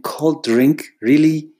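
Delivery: high and loud, outraged disbelief; incredulous. Retold or imitated. Creative scoffing inwardly at a client's offer, outraged disbelief. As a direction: throw it back high and sharp. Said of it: "in my head, I'm thinking".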